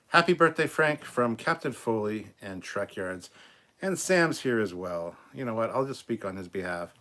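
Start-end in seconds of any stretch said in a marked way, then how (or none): 0.1-3.3 excited birthday cheer. Real, not acted. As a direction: call it out like a party cheer. Birthday greeting called out loud.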